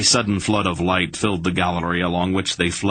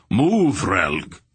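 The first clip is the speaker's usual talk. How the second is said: sharp raised call to keep moving; urgent shout. A narrator's reading. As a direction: Barak yells at Relg to hurry, urgent shout. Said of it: "Barak urging Relg to move".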